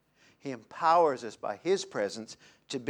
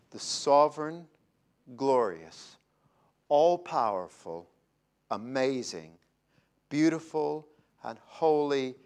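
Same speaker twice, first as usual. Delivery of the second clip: with an edge; 2 semitones lower, slower than usual. Acted. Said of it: "he would have said it with an edge".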